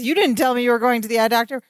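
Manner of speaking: quick, lightly acted reproach; a touch of mock indignation, fast; mildly upset. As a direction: retell an upset friend's complaint in a rush. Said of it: "upset, clearly. He says".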